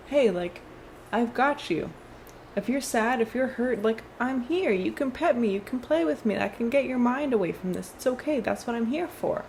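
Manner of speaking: lightly voiced pet saying it's there for you; comforting pet. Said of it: "she or he or they are saying".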